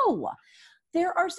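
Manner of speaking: hushed, whispered words; whispered aside. Real, not acted. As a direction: drop to a whisper for a moment. Sudden aside.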